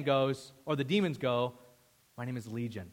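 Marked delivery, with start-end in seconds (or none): 2.2-2.9 low, quieter demonic growl; a hint of a scary demon speaking; lightly voiced demon naming itself. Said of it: "in that demonic, scary voice".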